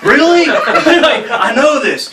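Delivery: high, loud mock-exasperated retort; hammed-up indignant comeback; retold bitching. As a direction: snap back in exaggerated disbelief, drawing it out. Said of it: "I'm bitching at him 'cause I'm pissed".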